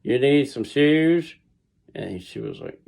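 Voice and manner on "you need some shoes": slow, high New York clerk echoing the line; amazed clerk. Retold or imitated. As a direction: echo the shoes back, amused and slow. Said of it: "And the guy was like".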